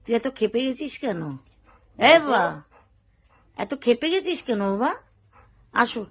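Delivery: calm the little one down tenderly. Real, not acted. Soothing an angry pet.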